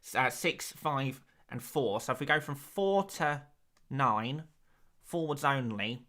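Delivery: a hint of a dry stats presenter voice; lightly put-on nerdy stats voice; statistics voice. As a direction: deliver the numbers like a pretend data analyst. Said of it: "you reckon I could do a whole stream talking like that".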